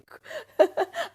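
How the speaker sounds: high rising giggle; high laugh. Real, not acted. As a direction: giggle at yourself. Laughing at herself.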